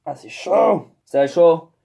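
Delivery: plainte de brûlure; ça brûle. Real, not acted. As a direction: parler en se brûlant les doigts. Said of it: "c'est brûlant". (plainte, ça brûle)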